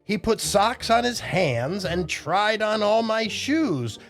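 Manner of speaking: put-on lilting read-aloud for children; story reading. A narrator's reading. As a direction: read the rhymes to the kids. Rhyming picture book read aloud.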